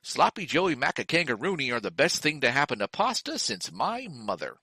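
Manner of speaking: upbeat announcer selling a product; mock ad copy with lively swoops; ad read. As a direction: sell it like a food commercial. Reads out the show's mock ad.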